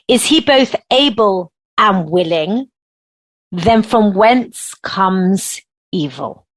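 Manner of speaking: slow, deliberate reading of a quote; reading aloud slowly. Shown as a demonstration. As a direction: read it slowly so it sinks in. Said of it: "I'm gonna read it slowly 'cause it takes a minute to sink in".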